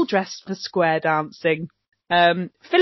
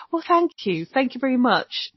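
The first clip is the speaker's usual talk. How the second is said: lightly voiced, higher-pitched polite thank-you; a hint of Phyllis, prim and grateful; imitating Phyllis; 4 semitones higher than usual. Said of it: "Phyllis is like".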